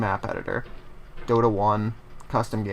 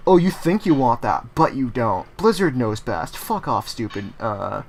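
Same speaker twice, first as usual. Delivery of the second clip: mock condescending Blizzard. Blizzard dismissing its players, smug mock condescension. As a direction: talk down to the players like a smug company. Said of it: "Blizzard was like".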